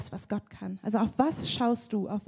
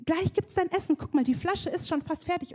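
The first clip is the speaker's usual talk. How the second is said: soothing mother; 8 semitones higher than usual. Retold or imitated. Mother soothing screaming baby.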